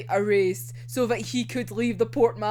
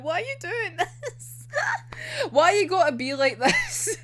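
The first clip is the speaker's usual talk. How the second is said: high mock whine; 9 semitones higher than usual. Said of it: "being like".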